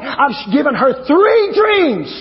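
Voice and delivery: slow, stretched, insistent declaration; emphatic answer. Retold or imitated. Preacher voicing God's answer to his prayer, slow and emphatic. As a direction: draw out the final words emphatically.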